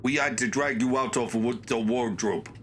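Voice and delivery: lightly attempted Russian accent; amateur Russian accent for a game character; stern accuser with a hint of Russian accent. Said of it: "I don't think I can do a Russian accent".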